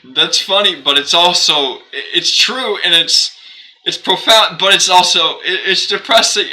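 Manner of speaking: hammed-up exclaiming about the quote; excited rant. Streamer reacting to a quote with loud, high excitement. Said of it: "And I'm just like".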